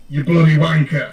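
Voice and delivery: loud, rough British insult, bloody punched; British accent. Shown as a demonstration. Teaching a friend a British insult, loud and rough. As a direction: belt it out like a cheeky Brit.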